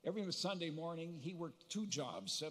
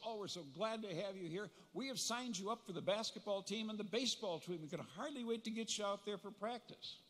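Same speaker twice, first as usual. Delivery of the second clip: mildly gushing coach, pitched higher; higher, eager welcoming pitch; 6 semitones higher than usual. Retold or imitated. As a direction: lightly imitate an overjoyed recruiter. Eager coach greeting new freshman.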